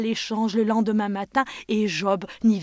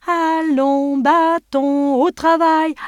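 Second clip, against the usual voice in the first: commanding call; 8 semitones higher, 11 dB louder, much slower than usual. Acted. Job calls the magic stick.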